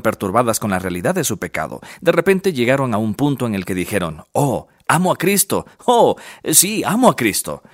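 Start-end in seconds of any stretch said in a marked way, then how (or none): 4.3-7.6 higher-pitched mock exclamation of discovery; lightly dramatized wonder, pitch lifting; acted sudden realization. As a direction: voice someone else's dawning revelation. Acts out people's sudden realization.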